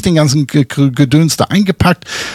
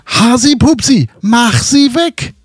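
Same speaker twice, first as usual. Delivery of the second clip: much higher shrieking call to get rid of the wasp; panicked call; 8 semitones higher than usual. Retold or imitated. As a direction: yell for help from ten metres away, high. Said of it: "ruft dann".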